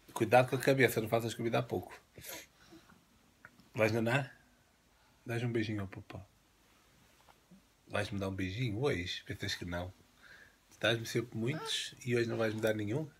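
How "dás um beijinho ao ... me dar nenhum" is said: softer, murmured plea for a kiss; soft pleading. Real, not acted. Dad quietly begging his daughter for a kiss.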